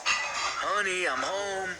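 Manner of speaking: high, sing-out homecoming call. A narrator's reading. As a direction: call up through the house. Husband calls out on arriving.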